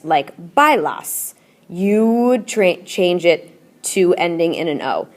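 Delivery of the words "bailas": bailas drawn out slowly, syllable by syllable; slow demo of bailas. Shown as a demonstration. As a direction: stretch out bailas so students hear each sound. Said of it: "anytime you see a verb that ends in A S".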